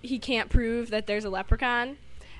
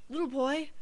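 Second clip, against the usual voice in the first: doctor; 4 semitones higher than usual. Retold or imitated. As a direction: put on a careful doctor's voice. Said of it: "And the doctor's like".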